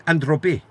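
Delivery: androbi said the Greek way, stress on the middle; Greek word androbi. Shown as a demonstration. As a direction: pronounce androbi as a native Greek speaker would. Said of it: "They go like this".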